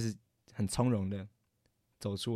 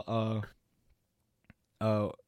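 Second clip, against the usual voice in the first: retold stutter; 2 semitones lower than usual. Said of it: "就是这么结巴".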